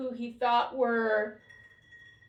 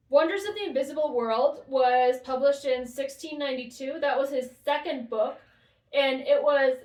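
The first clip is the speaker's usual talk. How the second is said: raised voice to the next room; speaking loudly. Real, not acted. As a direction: project so someone in the other room hears. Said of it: "I'll speak loudly so you can hear me in the other room".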